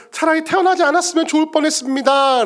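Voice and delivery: high, protesting lament; lamenting Job. Acted. Job wishing he had never been born, lamenting. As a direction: wail the complaint in a lifted, sustained voice. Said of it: "욥도 똑같이 말하죠".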